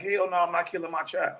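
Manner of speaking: firm, loud no with no hesitation; emphatic refusal. Retold or imitated. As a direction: shut the question down hard. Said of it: "it should be an emphatic".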